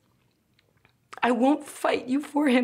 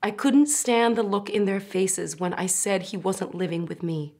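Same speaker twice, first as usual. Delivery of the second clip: tragic heroine sorrow; 4 semitones lower than usual. Acted. Mother confessing, voice breaking.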